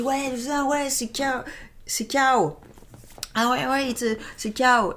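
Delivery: put-on a lightly done Spanish accent on K O; imitating Danny's accent. Mocking a magician's Spanish accent. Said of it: "il dit".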